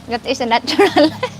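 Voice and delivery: laughter breaks through the word light; a laugh slips into the sentence; laughing mid-line. Real, not acted. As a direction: giggle through the repeat.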